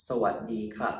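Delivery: สวัสดีค่ะ with a falling ค่ะ; polite female greeting. Shown as a demonstration. Teacher showing women the polite greeting, clear and careful. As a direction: drop the pitch on ค่ะ in สวัสดีค่ะ. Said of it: "you would say".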